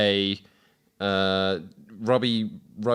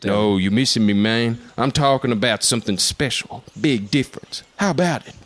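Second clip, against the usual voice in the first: put-on Robert Downey Jr accent. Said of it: "Can I do the accent".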